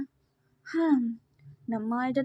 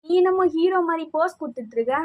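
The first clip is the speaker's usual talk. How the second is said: acted scolding. Girl insults the boy who poses like a hero, scolding. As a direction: tear into him with mounting indignation.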